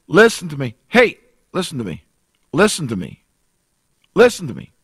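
urgent plea. Real, not acted. Preacher calls out to congregation.

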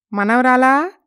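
calling granddaughter. Acted. Grandma calls her granddaughter from next door. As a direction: call out to the girl from the doorway.

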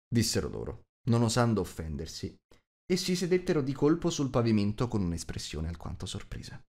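usual speaking voice

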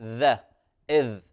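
isolated "ذا" and "إذ" with voiced th; dhal articulation. Shown as a demonstration. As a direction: show ذ in "ذا", "إذ", tongue between teeth. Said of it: "مخرج الذال".

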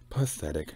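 PATHETIC said distinctly, syllable by syllable; enunciated. A narrator's reading. Star scorning admirers' comments, enunciating Pathetic. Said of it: "she enunciated".

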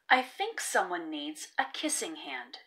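soft, low, inviting mother's voice; mother tenderly cheering up her son; warm and inviting. Acted. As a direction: coax him gently like a loving mom. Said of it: "in a voice that was warm and inviting".

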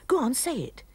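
mild mock yell, insisting; retold yell. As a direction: push it like the angry husband. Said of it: "you yelled".

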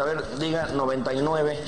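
low, matter-of-fact doctor; understated doctor voice. Acted. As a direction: give a routine examination instruction, pitched low. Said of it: "le pone el estetoscopio".

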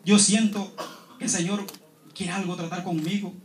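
low and soft, a hopeless confession; quiet despairing plea. Retold or imitated. A man telling a brother he feels near death, quietly. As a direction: let it sink, almost spoken to himself. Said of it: "le decía".

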